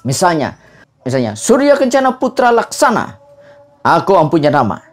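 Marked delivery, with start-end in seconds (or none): 1.4-4.8 Mamanda prime minister. Shown as a demonstration. Prime minister introducing himself in a Mamanda play, formal declamation. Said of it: "intonasinya tuh lazimnya seperti itu".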